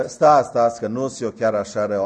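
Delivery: the youth calls the preacher back, urgent; urgent wait. Retold or imitated. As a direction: call him back before he goes. Youth stops the preacher leaving.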